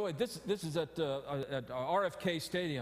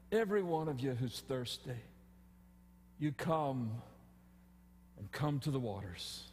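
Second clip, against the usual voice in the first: gracious invitation. Retold or imitated. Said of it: "you hear this one".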